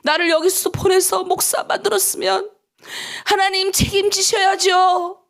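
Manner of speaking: mock stubborn child demanding help; tantrum prayer. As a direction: throw a tantrum at God, half pleading. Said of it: "땡깡 부리는 거예요".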